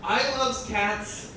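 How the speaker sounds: slow, drawn-out mock dialect verse; deadpan slow reading of a goofy poem; comic poem reading. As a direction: read the silly cat poem slowly, savoring it. Reads own comic dialect poem.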